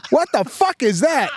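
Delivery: put-on very high-pitched little-kid voice; Serafina. Daughter cursing at the car window, little-girl voice. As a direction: repeat it as a small child would. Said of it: "She's like".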